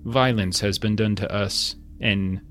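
lightly muffled, slow robotic android. Acted. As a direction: speak as if behind a helmet visor, slowly. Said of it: "muffled voice".

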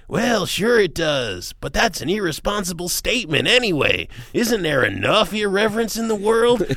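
lazily imitating a singer's halting interview answers; impression of a singer. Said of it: "I'm gonna do my Dylan for you".

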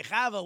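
"Chava" with a guttural ch, like Scottish loch; "Chava" said as KHA-va, ch from the throat; Hebrew name Chava. Retold or imitated. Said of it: "a funny way of pronouncing Chava".

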